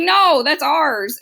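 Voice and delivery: loud, drawn-out mock protest; mock indignation. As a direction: stake an indignant claim, slow and high. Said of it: "So they're really mad".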